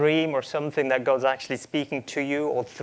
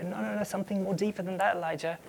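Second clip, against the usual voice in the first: soft, higher-pitched, quick objection; hushed, gently probing reply; gentle correction; 5 semitones higher, 6 dB quieter, faster than usual. Acted. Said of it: "not trying to get that defensive answer".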